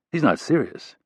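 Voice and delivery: half-laughing disbelief to the other bouncer; incredulous aside. A narrator's reading. Rapp asking the black bouncer, disbelieving aside.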